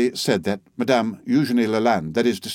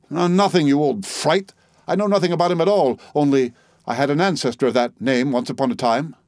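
higher, fast angry retort; 3 semitones higher than usual. Acted. Narrator snapping back at the old woman, angry. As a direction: snap back at her.

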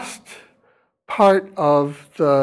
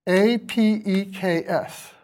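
"A P E K S" slowly, letter by letter; spelled out; 3 semitones higher, 5 dB quieter, slower than usual. Shown as a demonstration. Lecturer spelling apex phonetically, slow letter by letter. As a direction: spell it out evenly, each letter separate. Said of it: "I'm gonna spell this phonetically".

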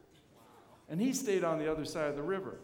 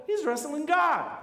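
slow, louder, higher proclamation; emphatic climax; 8 semitones higher, 7 dB louder than usual. Real, not acted. Preacher tells the congregation Jacob wrestles God, emphatic. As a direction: land the revelation hard.

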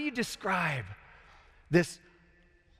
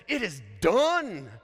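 voice from throne; 3 semitones higher, slower than usual. Acted. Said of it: "that voice from the throne says".

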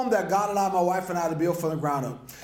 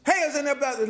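higher-pitched acted call for help; 5 semitones higher, much faster than usual. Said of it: "So he began to cry".

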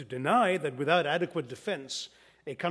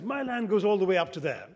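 mildly boastful farmer, pitched higher; very proud; 4 semitones higher, 3 dB louder than usual. Retold or imitated. Indian farmer boasting to American visitor about his land, proudly. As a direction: show off your land with a touch of pride. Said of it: "the farmer says very proudly".

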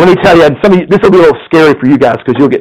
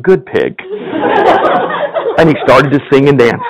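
lively storyteller reading a fable to the congregation; story narration; 3 semitones higher than usual. A narrator's reading. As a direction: tell it like a bedtime tale, playful. Pastor reads a story aloud.

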